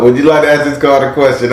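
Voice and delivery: sing-song, joking; playful teasing. Shown as a demonstration. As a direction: ask it with a playful lilt. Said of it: "I'm being a little funny here".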